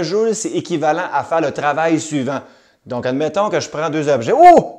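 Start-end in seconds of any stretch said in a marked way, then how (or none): 4.4-4.7 loud, high-pitched "oh!" of pretend discovery; hammed-up astonishment, shooting up high; mock surprise. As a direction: feign a big surprised find. Pretends to discover golf balls.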